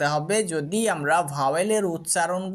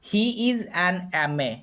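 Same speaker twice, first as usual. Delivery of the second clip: slow example read; much slower than usual. Shown as a demonstration. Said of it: "উদাহরণ দিচ্ছি দেখো".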